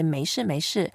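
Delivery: 没事 the southern Chinese way, without r ending; southern Chinese accent. Shown as a demonstration. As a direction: imitate southern China saying 没事. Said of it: "go to the southern China".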